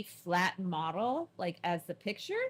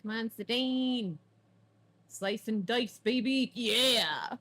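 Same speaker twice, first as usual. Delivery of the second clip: battle cheer; 3 semitones higher, 5 dB louder, slower than usual. Acted.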